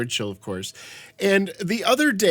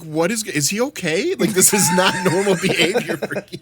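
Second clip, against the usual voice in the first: concerned, laughing; 2 semitones higher than usual. Retold or imitated. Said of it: "I was a little bit concerned for you".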